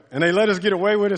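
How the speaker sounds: gleeful fast aside; amused rush. Real, not acted. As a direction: rattle it off, tickled by it. Laughing memory of youth group.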